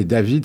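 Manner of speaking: David said the English way, as Day-vid; a French speaker showing the American David; David, American style. Shown as a demonstration. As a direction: pronounce David like an American first name. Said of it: "c'est avec l'accent américain".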